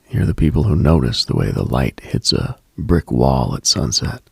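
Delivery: normal talking voice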